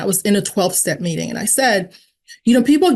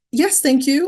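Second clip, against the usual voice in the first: higher-pitched, mock-polite yes; playful party-guest thanks; polite acceptance; 6 semitones higher than usual. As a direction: accept the offer sweetly, pitched up. Eagerly accepts offer at a party.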